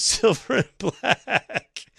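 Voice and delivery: a laugh breaking into the punchline; laughing while reading. Real, not acted. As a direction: chuckle through the words.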